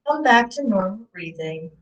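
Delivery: lightly held meditation voice with long pauses; guided meditation. Acted. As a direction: guide listeners calmly through each breath. Leads a guided breathing meditation.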